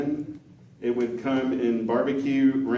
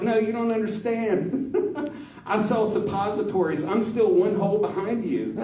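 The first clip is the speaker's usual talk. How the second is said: higher voice laughing through the words; laughing punchline; 9 semitones higher, 4 dB louder than usual. Retold or imitated. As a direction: crack up while delivering it.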